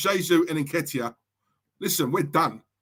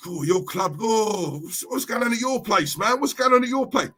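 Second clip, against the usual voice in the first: mocking rival fan. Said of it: "The minute I say Arsenal".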